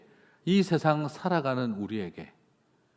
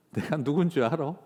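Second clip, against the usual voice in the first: light Gyeongsang swagger; 4 semitones higher, 4 dB louder than usual. Pretend. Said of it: "이렇게 할 수 있는 분들이시라는 거예요".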